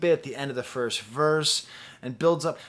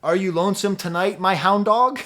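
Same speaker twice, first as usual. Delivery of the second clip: lightly crooned, louder crooner line; a hint of a famous singer; 6 semitones higher, 8 dB louder than usual. Reviewer spoofs a copycat album line, mock crooner croon. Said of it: "it sounded like a famous singer and I had a line that was like".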